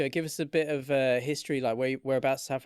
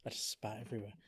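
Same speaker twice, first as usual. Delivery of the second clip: unvoiced, much softer whisper; whispered aside; 4 semitones lower, 12 dB quieter than usual. Real, not acted. Whispering to his friends after spitting by accident. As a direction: drop to a whisper, half to himself. Spat while talking, aside.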